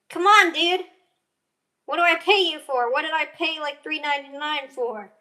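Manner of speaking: loud, frustrated scolding; exasperated. Real, not acted. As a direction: yell at the stubborn bottle. Scolding a stuck hot sauce bottle.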